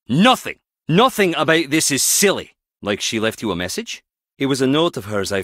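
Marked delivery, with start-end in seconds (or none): 0.1-2.5 raised, exasperated objection; offended and insistent; indignant protest. Acted. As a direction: protest hotly, pitch lifted. Acted quarrel, indignant protest.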